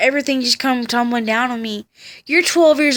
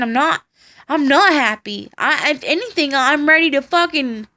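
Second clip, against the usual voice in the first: higher, raised and upset; retold snapping; 4 semitones higher than usual. Boy in the car snapping at the ladies, raised upset voice. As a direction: blurt out fear and anger at once. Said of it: "I fucking snapped".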